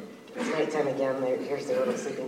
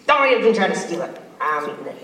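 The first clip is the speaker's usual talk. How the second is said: mock stern warning; 3 semitones higher, 7 dB louder, faster than usual. Giant lady warns.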